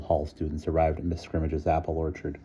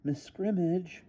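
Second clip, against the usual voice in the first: high, soft uneasy voice; 13 semitones higher, 8 dB quieter, slower than usual. A narrator's reading. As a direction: begin hesitantly. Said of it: "began Kathy uneasily".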